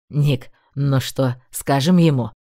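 slow, low smug drawl; mocking tease. A narrator's reading. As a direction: needle him with slow mischief. Bran teasing the lord.

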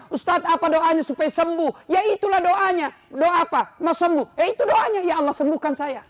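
loud, high-pitched sermon at full force; fiery preaching. Acted. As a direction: preach it to the whole hall.

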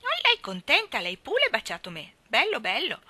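put-on high, loud childish delight. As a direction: gush like a little boy proud of a kiss. Child proudly tells of kiss.

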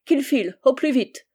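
imperious princess's command; exclaimed order. A narrator's reading. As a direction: send him packing sharply. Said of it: "s'écria la princesse".

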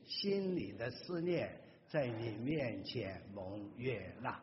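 slow, measured recitation of a psalm; scripture reading. Acted. Preacher leading the congregation in reading psalms, slow recitation. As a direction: read it prayerfully, word by word.

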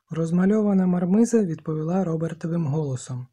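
plain reading voice

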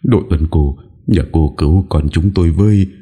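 high, urgent plea for help; a touch of desperate begging; earnest pleading. Acted. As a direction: implore her to save the child. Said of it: "khẩn khoản cầu cứu".

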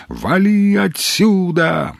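slow, high barked order to clear off; yell. A narrator's reading. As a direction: drive the soldier away with the words. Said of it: "заорал на него Маломальский".

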